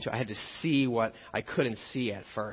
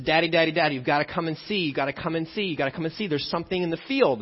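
excited little son; 5 semitones higher, 5 dB louder, faster than usual. Retold or imitated. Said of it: "And he says".

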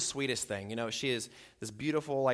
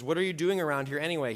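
a louder, sharp demand; demanding older brother; 4 semitones higher, 5 dB louder, faster than usual. Acted. Older brother Eliab demanding why David is here, angry and louder. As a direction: bark it like an annoyed older brother. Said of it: "he demanded".

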